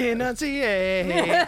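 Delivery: slow, laughing command. Real, not acted.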